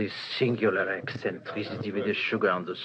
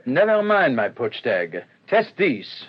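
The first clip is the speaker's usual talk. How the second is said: sharp demand; 5 dB louder than usual. Acted. Detective alarmed by salt.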